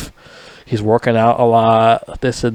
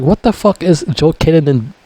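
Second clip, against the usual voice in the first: higher, incredulous yelling at the screen; what is he even doing, pitched up; baffled outburst; 5 semitones higher than usual. Retold or imitated. Vlogger yelling at actor fighting badly, higher and baffled. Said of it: "I'm like".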